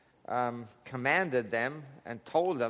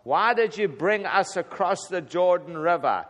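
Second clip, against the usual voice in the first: whining; 4 semitones higher, 5 dB louder than usual. Retold or imitated. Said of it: "he still whined".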